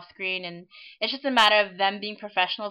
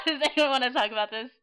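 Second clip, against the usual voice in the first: robot voice; 5 semitones higher, faster than usual. Real, not acted. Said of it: "You sound like a robot".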